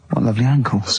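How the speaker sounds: low, slow and admiring; a lightly put-on swooning admirer; slow admiring line. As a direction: savour each word as you praise the ankles. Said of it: "slowly and go".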